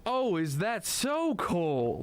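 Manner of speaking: drawn out like a villain who has won; teasing, knowing slowdown; mock gloat. Gloating over a trap.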